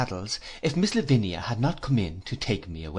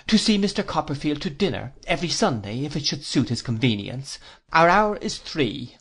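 lightly voiced formal aunt, measured; prim Miss Clarissa; 3 semitones higher than usual. Miss Clarissa grants Copperfield Sunday dinners, lightly voiced formal lady. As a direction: lightly play a ceremonious lady setting out terms.

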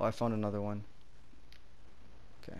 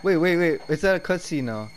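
being chased; 6 semitones higher, 5 dB louder than usual. Real, not acted. Grabbed by monster.

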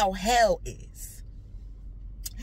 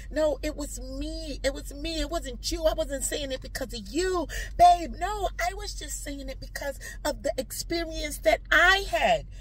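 higher-pitched earnest excuse; placating pleading; 4 semitones higher than usual. Retold or imitated. Wife insisting it was her fault, pleading. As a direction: take the blame to calm them. Retold pleading with angry partner.

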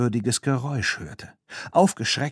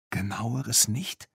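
disappointed; 5 dB quieter, slower than usual. Acted. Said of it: "fragte Claire etwas enttäuscht".

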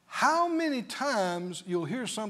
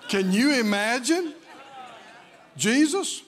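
incredulous shout; 3 semitones higher, 5 dB louder than usual. Real, not acted. Incredulous preaching.

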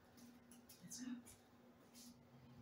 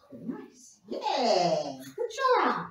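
squeaky praising a dog; 2 semitones lower than usual. Real, not acted. Praising dog after trick.

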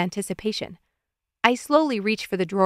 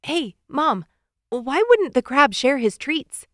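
put-on higher-pitched kid setting up a riddle; playful, raised-pitch joke setup; boy telling a joke; 5 semitones higher than usual. A narrator's reading. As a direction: pose the riddle to distract Mom. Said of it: "defaults to his best distraction tactic".

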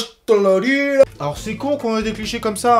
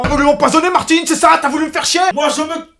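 engueulade imitée, plus aiguë et plus forte au début; Etchebest furieux imité; 5 semitones higher than usual. Retold or imitated. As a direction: jouer le chef outré qui claque la porte. Imite Etchebest furieux contre Martine. (chef furieux imité qui s'éloigne en baissant le ton)

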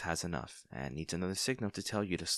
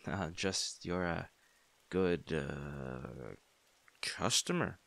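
flustered cover-up; 3 semitones lower, much slower than usual. Acted. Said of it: "I am not a terrible liar".

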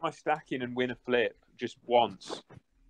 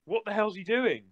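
disbelief; 8 semitones higher than usual. Real, not acted. Disbelief at opponent's call.

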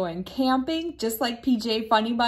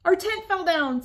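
high, louder distressed wail; upset wail; 9 semitones higher, 4 dB louder than usual. Acted. P J telling his mother in panic, high upset wail. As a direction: blurt it out in a panic.

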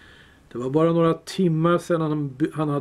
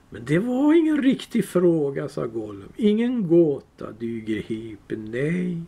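Gollum voice. Acted. Gollum arguing.

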